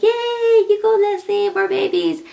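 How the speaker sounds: high, loud imitated cheering. Philadelphia friends cheering her pregnancy, high and loud. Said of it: "they're like".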